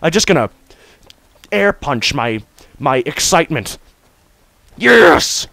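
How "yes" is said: excited yes. Real, not acted. Air punching in excitement.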